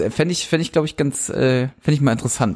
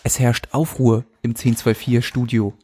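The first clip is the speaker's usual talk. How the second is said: narrator voice; slower than usual. Acted. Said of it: "so ein Erzähler einsetzt und sagt".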